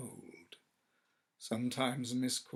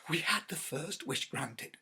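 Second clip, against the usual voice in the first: feverish; 4 semitones higher than usual. Acted. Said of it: "said the old woman feverishly".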